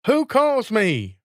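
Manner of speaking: high, slow puzzled call. Acted. Student calls out to an unseen voice, high and slow. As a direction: call upward, unsure where the voice is. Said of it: "cried out".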